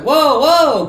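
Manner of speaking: loud, high startled whoa; retelling the moment the editor told him, shocked. Retold or imitated. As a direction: blurt it out in shock. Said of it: "I was just like".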